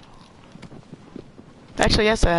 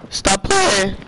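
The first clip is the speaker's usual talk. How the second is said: voice crack. Real, not acted. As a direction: let PLAYING break upward for a moment. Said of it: "that voice crack".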